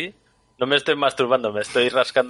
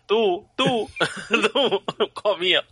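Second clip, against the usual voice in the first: high, laughing, teasing jab; laughing tease; 8 semitones higher, slower than usual. Real, not acted. Co-host teasing Christopher about being a comío, laughing. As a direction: laugh through the accusation.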